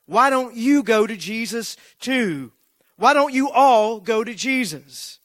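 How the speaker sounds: preacher yelling at the lingering congregation, loud and high. Retold or imitated. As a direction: fling the questions at the whole room. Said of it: "He then yells at the rest of the congregation".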